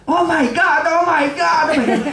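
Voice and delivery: high excited mock squeal, over and over; screaming like crazy. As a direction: squeal like you just saw colour for the first time. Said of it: "empezó a gritar como un loco". (grito exaltado de imitación)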